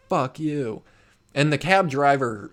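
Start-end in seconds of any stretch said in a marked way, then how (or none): 0.1-0.8 retold curse. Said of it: "my friend's like".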